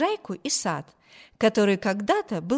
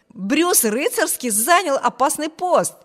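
loud, high, lively announcement; amused exclamation; 6 semitones higher, 5 dB louder than usual. A narrator's reading. Brother exclaims over Bruce's dangerous post, amused. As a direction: exclaim it with mocking relish. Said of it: "воскликнул он".

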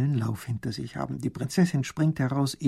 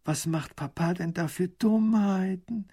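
ordinary delivery, nothing marked

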